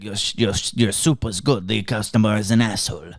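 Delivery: put-on lightly done French chef accent; a hint of a French cook praising soup; mock French accent. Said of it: "That was my French accent".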